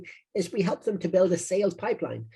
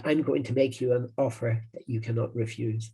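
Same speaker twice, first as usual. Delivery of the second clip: put-on a light Italian American Godfather accent, held back and understated; 4 semitones lower, 3 dB quieter than usual. Marketing coach redoing the Godfather line for viewers in a light Italian American accent. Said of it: "he would say it in an Italian American accent".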